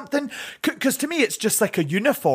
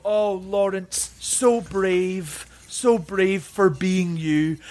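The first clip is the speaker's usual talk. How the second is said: slow, mildly condescending pity; patronizing praise; much slower than usual. Retold or imitated. People describing plus size dating, slow mock pity. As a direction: praise him like a brave child.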